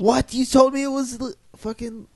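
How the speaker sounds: shocked high outburst; surprised. Real, not acted. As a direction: blurt it out in disbelief. Shocked at divorce news.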